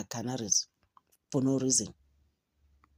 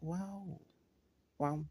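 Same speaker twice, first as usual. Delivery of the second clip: very soft, stunned wow; hushed disbelief; 3 semitones higher, 13 dB quieter than usual. Acted. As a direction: barely voice a dumbfounded reaction. Acted underwhelmed reaction to the claims.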